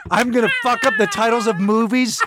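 gleefully trash-talk him; mock trash talk. Taunting a friend's dad in mock excitement.

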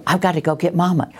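imitating a child. Parent voicing scared child.

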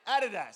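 "Adidas" stressed up front, AD-i-das; Australian pronunciation. Shown as a demonstration. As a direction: hit the first syllable of "Adidas". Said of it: "so much better when you say Adidas".

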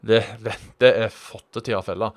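southern Norwegian accent attempt. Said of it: "Sørlandsk".

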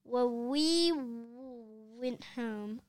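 slow, halting, tripping on the word; guilty boy stammering to the principal; nervous stammer. Acted. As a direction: stumble out a weak excuse. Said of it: "Harold stammered nervously".

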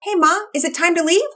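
very high, loud surfer dude shout; a stoked skater boy yelling with delight; Todd the surfer kid. Acted. Todd voiced.

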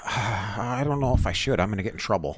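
lightly voiced hesitant old politician; hint of a mock impression; Biden. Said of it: "Biden here lately a lot, what he's been saying is".

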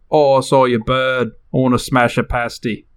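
lightly put-on British accent; a touch of casual British accent; mock British accent. Host explains what bird means in use, light British accent. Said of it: "So they say, like".

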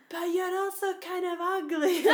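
high, loud cheeky jeer; hammed-up kid jeer with a laugh; mock jeering boy. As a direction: imitate lads taunting her. Boys' insult, retold.

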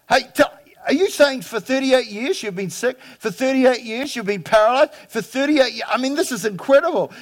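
excited, high-pitched astonished bystander; thrilled disbelief at a miracle; amazed onlooker. Pretend. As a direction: gush in wonder at the healed man. Preacher acting out amazed onlookers.

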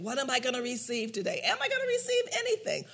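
high, fast skeptical question; imitating a doubtful churchgoer; mock doubter.

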